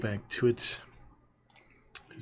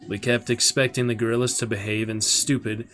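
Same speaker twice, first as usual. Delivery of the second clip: louder, dramatic audiobook reading; story narration; 5 dB louder than usual. Acted. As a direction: read the chapter with dramatic weight. Reads the novel aloud to stream.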